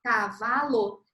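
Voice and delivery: "Cavalo" said slowly, syllables apart; "Cavalo" pausado. Shown as a demonstration. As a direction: sound out "Cavalo" in slow beats. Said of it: "E se devolver?".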